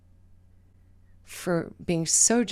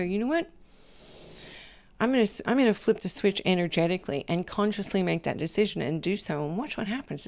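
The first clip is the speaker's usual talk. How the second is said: inner resolve; faster than usual. Retold or imitated. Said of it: "sit in your body and go".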